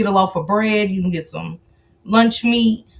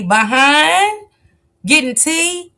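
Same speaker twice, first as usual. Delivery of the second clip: teasing high question; 8 semitones higher, 3 dB louder, much slower than usual. Pretend. Teasing question before whispered echo.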